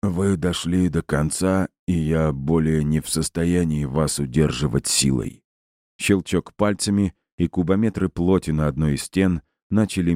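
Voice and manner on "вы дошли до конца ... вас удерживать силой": distorted robot voice. Acted. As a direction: speak like a damaged machine, lightly warped. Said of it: "низким и сильно искажённым голосом повреждённого робота".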